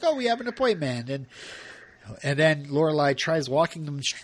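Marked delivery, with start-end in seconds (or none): 0.0-1.1 high-pitched mock excuse; acted brush-off. Richard and Emily put Lorelai off, acted high excuse. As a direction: play the couple's excuse in a raised voice. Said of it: "they're like".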